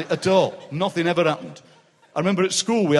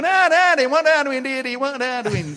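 high, loud mock Sheffield accent; hammed-up Sheffield accent, much higher; Sheffield accent impression; 8 semitones higher, 3 dB louder than usual. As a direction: send up the Sheffield "Deedar" sound. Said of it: "we call 'em Deedars".

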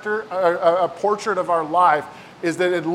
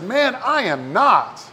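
slow denial; 3 semitones higher, slower than usual. Retold or imitated. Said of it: "And Peter said".

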